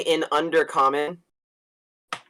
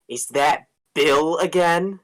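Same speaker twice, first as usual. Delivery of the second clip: dark elf taunt; slower than usual. Acted. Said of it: "I'm gonna say in Undercommon".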